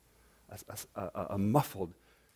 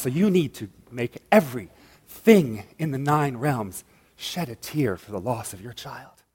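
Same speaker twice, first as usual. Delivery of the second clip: icy queen; 2 semitones lower than usual. Acted. Icy queen of hell answers.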